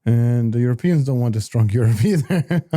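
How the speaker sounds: dry sarcastic aside with a laugh. Real, not acted. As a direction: say it tongue-in-cheek, half laughing. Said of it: "I'm just being sarcastic".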